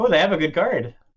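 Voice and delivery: sudden, caught-off-guard surprised exclamation. A player recalls the opponents' good card in a card game, mock-surprised. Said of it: "You sound so surprised".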